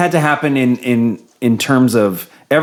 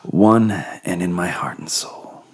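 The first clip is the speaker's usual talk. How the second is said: Pillow Talk voice; 6 semitones lower, 5 dB quieter, slower than usual. Acted. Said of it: "the Pillow Talk voice".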